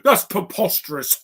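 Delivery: high mock laugh around the words; put-on laugh trailing into rapid chatter; mimicked laughing scoff. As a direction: imitate an over-the-top comic cackler. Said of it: "Or Binto's going".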